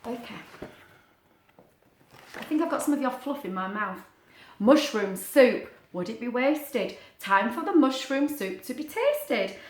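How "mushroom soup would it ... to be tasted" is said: slow sing-song rhyme; storybook chant; rhyme reading. A narrator's reading. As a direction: read it like a little poem.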